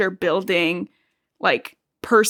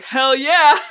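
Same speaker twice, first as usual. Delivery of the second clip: higher, louder mock cheer; excited cheer; 5 semitones higher, 6 dB louder than usual. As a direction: whoop it like a hyped brother. Emmett cheering.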